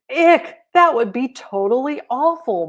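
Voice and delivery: high, loud ick of disgust; disgusted kid. Acted. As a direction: recoil like a grossed-out child. Child reacts in disgust.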